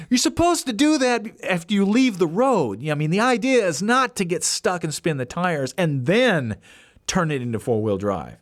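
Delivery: put-on a touch of teenage disbelief; exasperated. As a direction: point out the obvious, fed up. Boys exasperated at dad.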